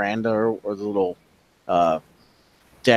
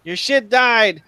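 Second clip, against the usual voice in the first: high, loud mocking glee; gleeful cackling; 13 semitones higher, 7 dB louder than usual. Husband laughs his ass off at dead plants, gleeful shouting. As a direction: crow it between bursts of laughter. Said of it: "starts laughing his ass off".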